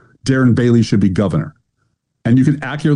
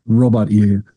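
James Mason impression; 3 semitones lower than usual. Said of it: "James Mason".

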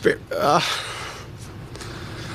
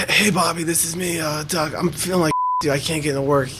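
higher put-on sick voice; faking being sick; 3 semitones higher than usual. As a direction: play sick on the phone, pitched up. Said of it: "in a sick voice".

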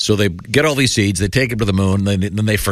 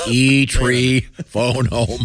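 E.T. voice; 3 semitones higher, much slower than usual. Acted. E.T. parody line.

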